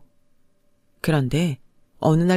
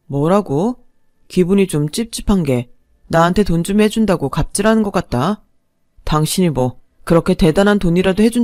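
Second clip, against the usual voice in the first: louder, indignant husband snapping back; husband flaring up at his wife, louder and resentful; angry outburst; 4 dB louder than usual. Acted. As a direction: blow up at your wife over money. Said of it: "화를 버럭 내더니".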